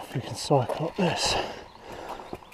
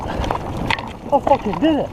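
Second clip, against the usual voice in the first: slow, stretched, rising joy; drawn-out triumph; 7 semitones higher, 6 dB louder, slower than usual. Real, not acted. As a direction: savor every word of it. Repeats it, savoring the success.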